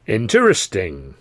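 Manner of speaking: slow, drawn-out teasing; building suspense. Acted. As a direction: hold the suspense. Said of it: "building suspense like the master showman".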